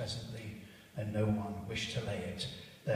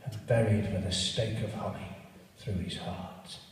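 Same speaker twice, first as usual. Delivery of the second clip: loud, scornful Christmas rant; ranting Scrooge; 7 dB louder than usual. Acted. Scrooge ranting at his nephew, loud and scornful. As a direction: spit out your contempt for Christmas.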